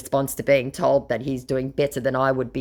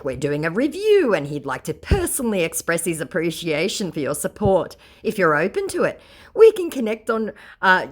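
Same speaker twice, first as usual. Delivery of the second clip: lightly raised, mock-polite scammer voice; scammer's message; 5 semitones higher, 3 dB louder than usual. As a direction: read it like a smarmy fake publicist. Reading the scammer's message aloud.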